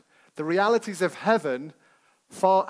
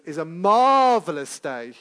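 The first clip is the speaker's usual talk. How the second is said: put-on American accent; 5 dB louder than usual. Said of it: "this is the speaker's version".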